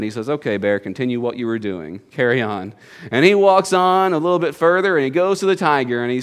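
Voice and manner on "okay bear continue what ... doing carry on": low, regal dismissal of a subject; lightly voiced pleased lion, pitched down; self-satisfied lion. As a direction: grant leave like a contented king. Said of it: "the lion feels pretty good".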